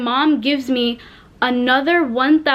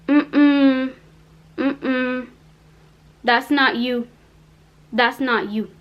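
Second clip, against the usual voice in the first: sassy officer; much slower than usual. Retold or imitated. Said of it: "this lady had an attitude".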